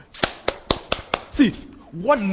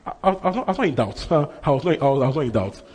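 flustered denial; faster than usual. Acted.

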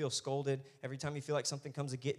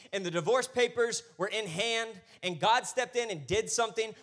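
raised, urgent sermon cadence; preacher rousing the room; impassioned preaching; 6 semitones higher, 5 dB louder than usual. Real, not acted. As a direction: press the testimony onto the congregation. Preaches at full force.

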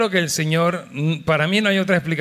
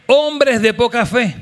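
loud, high, slow scolding; loud slow rebuke; 6 semitones higher, 5 dB louder, slower than usual. Shown as a demonstration. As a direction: declare it firmly to the neighbour. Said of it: "Díselo ahora". (reprende fuerte y lento)

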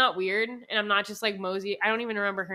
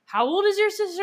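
higher-pitched mock suspicious question; imitating the cashier; 9 semitones higher, 4 dB louder than usual. Retelling the cashier's suspicious question, higher mock voice. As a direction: ask it like the puzzled cashier.

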